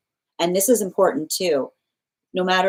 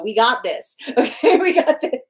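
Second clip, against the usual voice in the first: higher, brighter mock daughter voice with a laugh; daughters reassuring; 7 semitones higher, 4 dB louder than usual. Daughters reassuring their parent, playfully higher with a laugh. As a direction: play the girls confidently brushing it off. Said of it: "They go".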